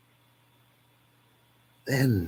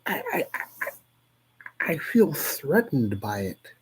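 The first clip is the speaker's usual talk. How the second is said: whisper; 6 semitones higher, 4 dB quieter, slower than usual. Acted. Dramatic whispered reading.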